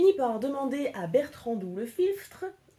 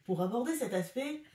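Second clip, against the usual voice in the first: parody news anchor. Pretend. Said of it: "Bienvenue sur CNews".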